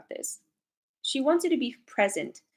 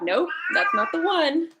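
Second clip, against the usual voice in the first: voicing grandma; 7 semitones higher, 6 dB louder than usual. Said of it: "I heard her go like".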